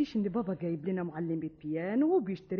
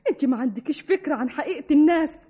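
louder urgent scolding; alarmed pleading; 2 semitones higher, 7 dB louder than usual. Acted. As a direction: plead sharply to stop her. (توسل منفعل)

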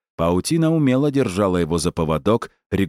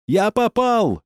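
very high triumphant shout; triumphant yell; slower than usual. A narrator's reading. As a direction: crow the hit. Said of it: "торжествующе орал Шагабуддинов".

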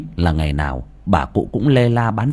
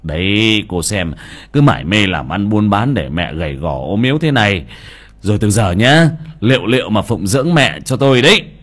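reproachful; 4 dB louder than usual. Acted. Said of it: "trách vợ".

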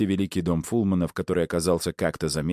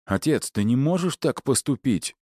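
raised pitch, urgent objection; heated protest; 8 semitones higher than usual. A narrator's reading. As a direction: protest hotly in a higher voice. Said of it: "горячо отреагировал Игнат".

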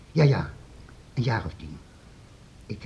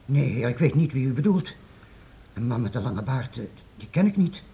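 startled denial; 2 semitones higher, 4 dB louder than usual. Acted. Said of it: "Je schrok".

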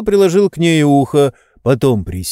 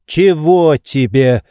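loud, higher, stern demand; menacing; 5 semitones higher, 6 dB louder, slower than usual. A narrator's reading. Master suddenly opens eyes at servant, stern and loud. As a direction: snap awake and demand it sternly. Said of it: "грозно спросил Обломов".

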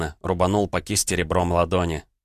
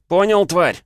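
furious shout; 11 semitones higher, 7 dB louder than usual. Acted. Enraged threat in a fight.

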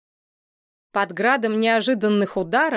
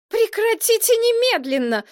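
high, sharp outraged order; indignant princess; 13 semitones higher, 3 dB louder than usual. A narrator's reading. Princess stops the fighting boys, high indignant cry. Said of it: "возмутилась принцесса".

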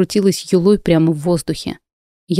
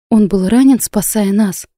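exclaiming; 3 semitones higher than usual. Acted. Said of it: "воскликнула я".

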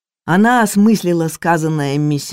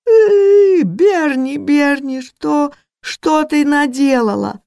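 much higher, louder crying plea; sobbing wail; 11 semitones higher, 5 dB louder, slower than usual. Acted. Maid sobs at the cook, much higher loud crying wail. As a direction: wail through tears. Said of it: "разревелась".

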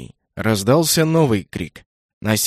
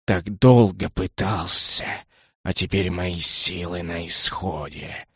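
low, slow, softer fading murmur; fading despair; 7 semitones lower, 4 dB quieter, slower than usual. A narrator's reading. Weary dragon whispering its strength is gone, low and soft. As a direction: let the strength drain out.

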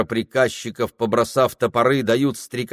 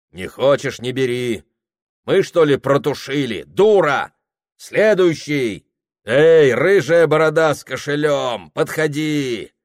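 loud, brusque clerk shouting at customers; rude shop clerk; 5 semitones higher, 5 dB louder than usual. Acted. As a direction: bark him off and call the next one.

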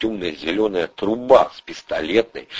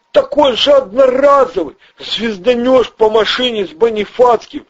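high, jittery small-time crook; squeaky nervous crook voice; Ryzhy's voice; 5 dB louder than usual. Acted. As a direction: pitch way up and talk fast like a nervous hustler. Ryzhy explains the launcher.

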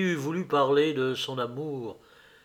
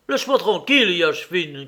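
raised, irritated protest, easing off at the end; annoyed, higher and louder at first; angry cry; 3 semitones higher, 5 dB louder than usual. Acted. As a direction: snap at a pestering comrade. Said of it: "cria-t-il avec colère".

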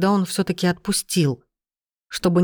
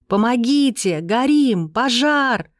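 screaming fire while slung over his shoulder; shouting for help; 5 semitones higher, slower than usual. A narrator's reading. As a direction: yell out for help. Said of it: "выкрикивала".

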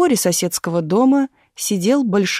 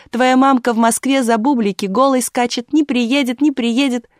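angry taunt; 6 semitones higher, 4 dB louder than usual. A narrator's reading. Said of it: "кричал в ответ злой Ипат".

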